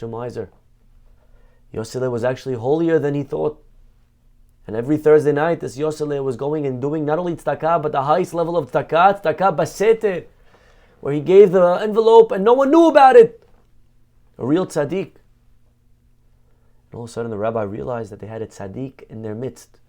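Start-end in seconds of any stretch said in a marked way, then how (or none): 4.7-15.2 building from warm telling to a fervent, much louder and higher peak; rising fervor. Acted. Preacher to congregation, swelling into rapturous praise. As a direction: climb until the hidden charity bursts out.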